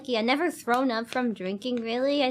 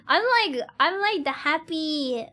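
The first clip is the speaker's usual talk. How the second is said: laughing; 4 semitones higher than usual. Real, not acted. Giggling tipsy.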